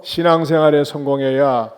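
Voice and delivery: loud, evenly delivered prompt; lead for repetition. Shown as a demonstration. Preacher gives congregation another phrase to repeat, loud leading call. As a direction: call it out to be echoed. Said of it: "따라서 합시다".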